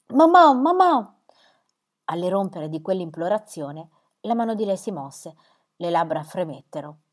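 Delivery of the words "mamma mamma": put-on high, loud, slow child's sobbing wail; child's crying wail. A narrator's reading. Little boy wailing for his mother, crying child's voice. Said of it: "uno scoppio di pianto".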